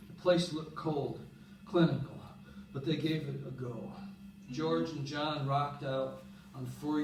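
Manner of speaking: measured spoken-word poem delivery; recited poem with pauses between phrases; poem reading. Acted. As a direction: read it as a poem, line by line. Reads a poem aloud.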